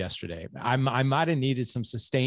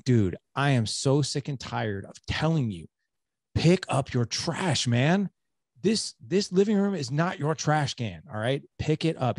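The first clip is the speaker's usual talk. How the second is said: irritated scolding; 5 semitones higher than usual. Retold or imitated. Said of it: "one of those kind of foul states".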